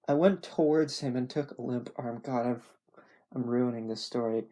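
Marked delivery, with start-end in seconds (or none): none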